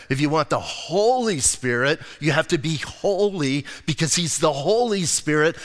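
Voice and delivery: a hint of a rigid holiness preacher; imitating the teacher. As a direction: mimic the old legalist teacher laying down the rule. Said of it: "this is how he said it".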